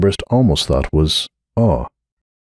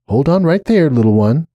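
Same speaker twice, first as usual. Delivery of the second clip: a little higher, coaxing; gentle firm warning; 7 semitones higher than usual. Acted. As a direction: stop a small child kindly. Starlight stops the foal.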